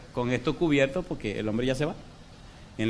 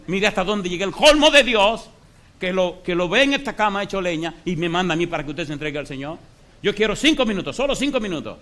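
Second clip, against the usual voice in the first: predicando fuerte; 4 semitones higher, 4 dB louder than usual. Retold or imitated. Pastor predica al moribundo con fuerza.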